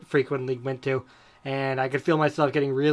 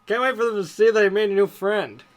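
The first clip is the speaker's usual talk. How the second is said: higher-pitched acted eagerness; eager Ron; 5 semitones higher, 4 dB louder than usual. A narrator's reading. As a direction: show off a new friend in character. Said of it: "Ronald offered eagerly".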